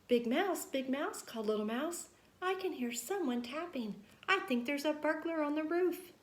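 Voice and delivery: high, anxious little voice; scared child mouse waking his brother; worried Little Mouse. Acted. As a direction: convince him there's a burglar.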